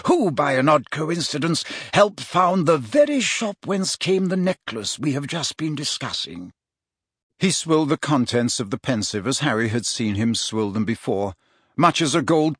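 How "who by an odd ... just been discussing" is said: higher-pitched mentor, emphatic then falling away; Dumbledore. Acted. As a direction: explain like a learned old wizard. Wizard continues his explanation.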